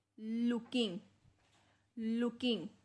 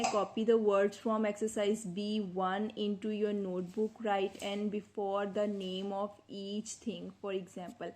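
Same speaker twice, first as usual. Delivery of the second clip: slow, deliberate reading of the instructions; much slower than usual. Shown as a demonstration. Teacher reads textbook instructions aloud to pupils, slowly. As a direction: read each English word out carefully for the class.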